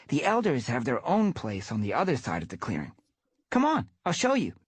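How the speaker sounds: put-on eager young cat explaining; young apprentice cat. Grey Paw explaining and inviting.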